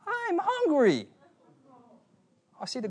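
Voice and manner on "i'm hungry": put-on high, slow little-boy voice; whiny little kid. Little brother in the back seat complains, high and slow. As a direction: play the hungry little brother, drawn out. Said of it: "this kid little brother in the back says".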